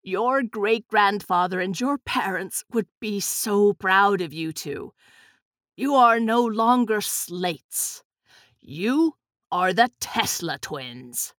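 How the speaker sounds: slow, weighty grandfatherly pronouncement; solemn declaration. A narrator's reading. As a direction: declare it proudly, taking your time. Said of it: "he declared".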